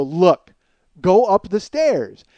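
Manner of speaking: loud, slow, emphatic retold command; impatient order. Helper to slow couch owner, loud impatient order. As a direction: spell it out with strained impatience.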